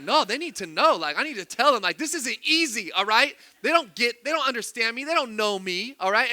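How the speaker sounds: mildly exasperated protest; replayed frustration, lightly heated; frustrated retelling. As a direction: act out insisting to your wife. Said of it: "I'm getting frustrated".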